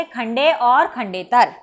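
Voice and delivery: खंडे और खंडेतर spelled out slowly, each word weighted; teacher stresses the two parts for students; slow emphatic answer. Shown as a demonstration. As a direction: drill the two terms slowly for the class. Teacher answers her own question.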